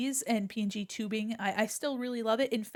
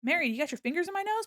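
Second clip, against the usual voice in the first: mock surprise; 8 semitones higher, faster than usual. Chat pokes avatar's nose.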